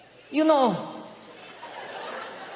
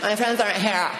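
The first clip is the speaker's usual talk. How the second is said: hammed-up distraught teen, higher; whiny teen daughter; 4 semitones higher, 4 dB quieter than usual. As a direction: mope over absent friends in mock despair. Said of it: "That's not how she talks".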